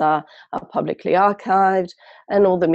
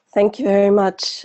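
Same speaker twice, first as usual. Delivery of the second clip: croaking, hoarse voice; 4 semitones higher than usual. A speaker nursing a cold thanks the host before speaking, croaky voice. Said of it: "apologies for my very croaky voice".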